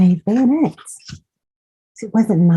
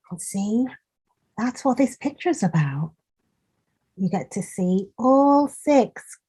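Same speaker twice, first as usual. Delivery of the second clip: soft aside; 3 semitones higher, 6 dB quieter than usual. Real, not acted. Aside to child, softer.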